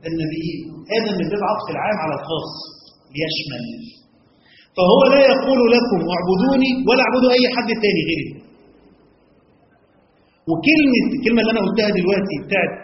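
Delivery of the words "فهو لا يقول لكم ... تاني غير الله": emphatic and higher. Real, not acted. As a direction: drive the point home. Emphatic teaching point.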